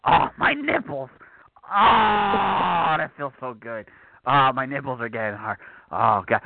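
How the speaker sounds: hammed-up pleasure cries; mock ecstatic moaning. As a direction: moan it out over the idea. Mock ecstasy over match idea.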